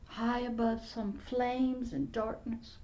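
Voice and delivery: breathy hushed testimony; hushed whisper. Real, not acted. Preacher whispering his testimony to the congregation. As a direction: whisper it like a sacred secret.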